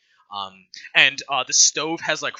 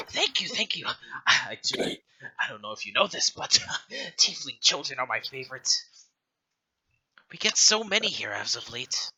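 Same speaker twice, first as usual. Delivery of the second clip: put-on grateful old matron; 2 semitones higher than usual. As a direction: gush thanks like a fond old caretaker. Matron thanks the party.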